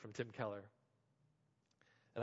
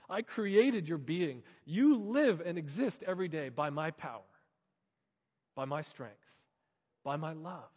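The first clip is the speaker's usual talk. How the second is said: God's reply; 4 dB louder than usual. Acted. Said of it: "God's response".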